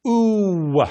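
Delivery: slow English "u" closed off at the end; wrong English U. Shown as a demonstration. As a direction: glide the U like English "you". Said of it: "It's not u".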